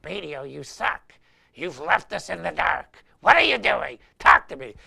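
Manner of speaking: hammed-up bandmates losing it; mock freaking out. Bandmates yelling at the radio, rising mock panic. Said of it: "both hands are freaking out going".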